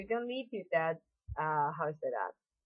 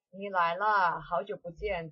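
peaceful. Shown as a demonstration. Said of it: "That's just really peaceful".

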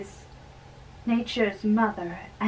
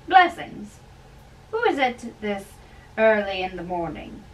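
raised, loud and jovial; cheerful old friar; 4 dB louder than usual. Acted. Old friar teasing the young man at dawn, loud and jovial. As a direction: tease the young man heartily, voice up.

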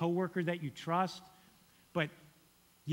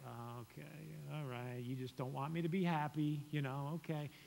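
muttered, much softer grudging give-in; begrudging; 6 dB quieter than usual. Retold or imitated. Husband grudgingly giving in to wife, softer and sulky. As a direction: grudgingly give in, voice dropping away. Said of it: "I begrudgingly was like".

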